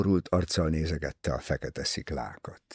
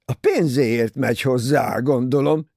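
loud, raised accusation; angry shout; 4 semitones higher, 6 dB louder than usual. Acted. Ferguson shouts angrily at Cornelia. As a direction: fling the charge at her. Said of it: "kiáltott dühösen Ferguson".

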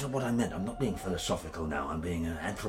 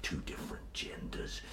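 whispering softer about flesh; hushed whisper; 4 semitones lower, 6 dB quieter than usual. Real, not acted. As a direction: confide it in a whisper. Intimate confession.

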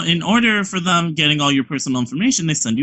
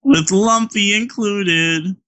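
mock excitement; 3 semitones higher, much slower than usual.

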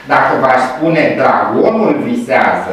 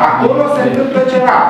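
bigger mysterious hint; 10 semitones higher, faster than usual. Shown as a demonstration. Lecturer hamming up the mystery for students, higher and quicker. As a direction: play up the secret even more.

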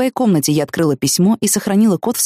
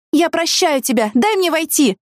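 pleading shout; 10 semitones higher, slower than usual. Acted. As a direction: cry out to be let in. Pleading through the door.

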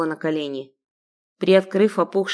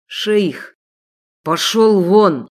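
slow, loud shout to get out; furious shout; 5 dB louder, much slower than usual. Acted. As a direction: drive him away with rage. Sheikh shouts at servant.

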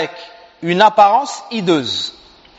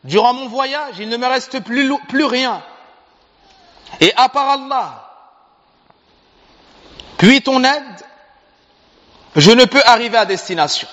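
pleading poor traveller; 6 semitones higher than usual. Acted. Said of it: "il lui a dit".

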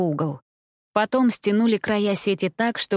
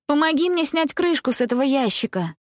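urgent request; 7 semitones higher than usual. A narrator's reading. Eddie urgently calls for help.

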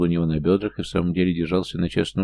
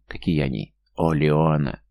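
swooning murmur; 3 semitones lower than usual. A narrator's reading. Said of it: "невнятно простонал он".

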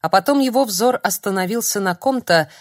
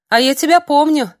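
high, loud, beaming with a smile; smiling; 9 semitones higher, 8 dB louder than usual. A narrator's reading. Holy fool greets the frightened sorcerer, smiling. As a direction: greet him like an old friend, smiling. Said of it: "улыбнулась дурочка".

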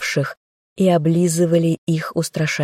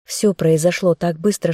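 ordinary delivery

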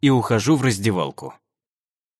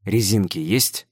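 hoarse whisper; 4 semitones lower than usual. Acted. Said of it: "Хриплю ей в ухо".

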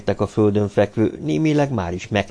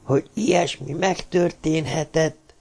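high, held-in indignation; tight, higher-pitched outraged disbelief; tense angry murmur; 7 semitones higher than usual. A narrator's reading. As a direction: murmur through restrained anger. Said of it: "mormolta Andrev feszesen, indulattól reszkető ajakkal".

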